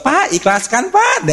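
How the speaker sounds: mock beggar's plea, rising high; begging plea. Mimics mosque donation beggars.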